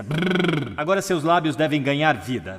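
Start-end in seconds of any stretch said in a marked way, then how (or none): 0.0-0.7 short high lip-buzz warm-up; lip trill. Shown as a demonstration. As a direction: roll the lips loosely, like a child playing. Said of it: "igual quando você era criança".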